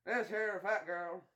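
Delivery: put-on drawn-out country boy; redneck boy. Redneck boy sizing someone up, slow hick voice. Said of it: "that's the redneck boy".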